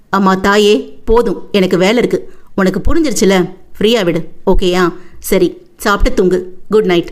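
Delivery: mild brotherly impatience; exasperated older brother. Acted. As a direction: cut her off fondly and sign off.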